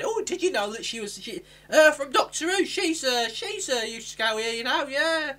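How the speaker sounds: high, eager gossiping voice; mock gushing bystander. Graduation guest gushing about Mandip Gill, high and eager. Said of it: "someone said".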